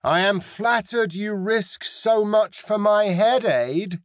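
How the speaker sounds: put-on pirate captain calling across the water in a high, foreign-accented voice; sly pirate captain, speaking Aydin with a foreign accent and pitched well up. A narrator's reading. Pirate captain calls to the enemy ship, in accented Aydin. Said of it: "She called in accented Aydin".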